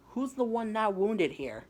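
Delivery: high, loud, drawn-out jeer; loud taunt. Acted. Taunting a wounded rival on arrival, loud gloating jeer. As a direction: crow it slowly, loud and high.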